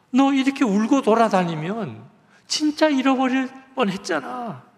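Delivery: a father scolding his lost daughter, high and loud; frantic father telling off his little girl; retold scolding. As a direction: scold her sharply, half relieved, half angry. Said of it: "막 야단을".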